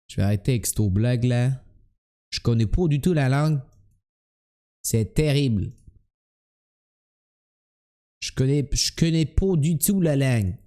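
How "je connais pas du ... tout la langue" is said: light comic Québécois impersonation; Québécois accent. Acted. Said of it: "quand tu imites les Québécois".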